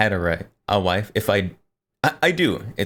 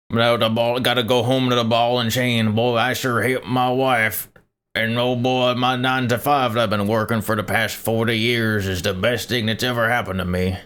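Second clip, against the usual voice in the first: put-on higher, Southern old man voice; old man boomer voice; 3 semitones higher than usual. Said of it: "my, like, old man boomer voice".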